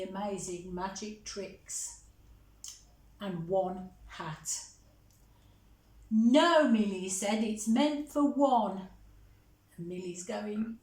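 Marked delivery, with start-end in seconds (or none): 6.1-8.9 louder, a firm no to a little sister; firm big brother. Acted. Monty telling Millie the magic set is only his, firm. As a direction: put your foot down, mildly.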